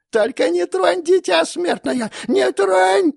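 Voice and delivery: very high, loud pleading screech; desperate crone. Acted. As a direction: beg shrill for the baby. Goddess begging for child.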